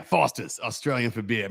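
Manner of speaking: imitated Australian slogan voice; Australian accent. Joining in on the ad slogan, in an Australian accent. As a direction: echo the beer slogan in Aussie. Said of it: "nineties Foster's beer commercials".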